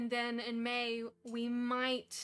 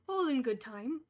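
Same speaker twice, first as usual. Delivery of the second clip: 1 Gandalf voice; 6 dB louder than usual. Acted. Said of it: "said Gandalf".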